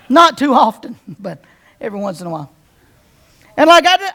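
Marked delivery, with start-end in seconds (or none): 0.1-2.5 laughing aside. Real, not acted. Preacher laughing off his own sarcastic side. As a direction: laugh it off quickly.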